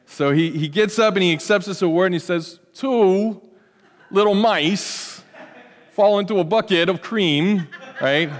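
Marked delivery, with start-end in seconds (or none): 2.8-7.7 halting, slowed celebrity drawl with odd pauses; a self-conscious imitation, breaking into a laugh; Christopher Walken impression. Pastor imitating an actor accepting an award, halting and slow. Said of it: "my best Christopher Walken impersonation".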